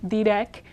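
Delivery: "direc" ending on a hard k. Shown as a demonstration. Teacher shows the first C, hard k. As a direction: say "direc" as thee-rek, tapped r. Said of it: "first C is a hard k sound".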